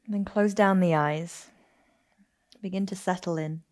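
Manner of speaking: calm, unhurried yoga nidra guidance; guided meditation. Acted. Teacher settling listeners into yoga nidra on their backs, guided meditation. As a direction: ease them into rest, with long pauses between phrases.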